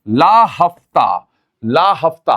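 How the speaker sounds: very slow, drawn-out words; slow mnemonic. Shown as a demonstration. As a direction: drag each word out for the class. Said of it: "तो देखिए याद करने का तरीका".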